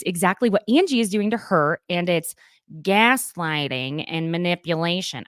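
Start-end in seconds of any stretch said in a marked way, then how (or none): 2.8-5.2 Southern accent slipping in. Real, not acted. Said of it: "my Southern accent is coming through".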